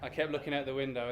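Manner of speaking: normal talking voice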